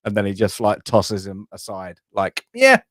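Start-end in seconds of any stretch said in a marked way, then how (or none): 2.5-2.8 imitated toss. Imitating Vader tossing a man aside.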